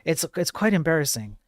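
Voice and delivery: half-hearted mock English accent, lightly put on; a clumsy go at a posh English accent; a lightly voiced, badly done English accent; terrible English accent. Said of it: "That was a terrible English accent".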